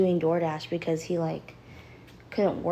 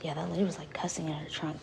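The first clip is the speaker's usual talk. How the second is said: hushed whisper; 6 dB quieter, faster than usual. Real, not acted. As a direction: whisper it so she can't hear. Whispering about the delivery lady.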